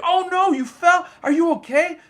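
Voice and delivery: high-pitched mock-worried bug voice; concerned little bug. Bug sees its friend trip and fall, high and worried. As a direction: fret over your friend as a tiny bug.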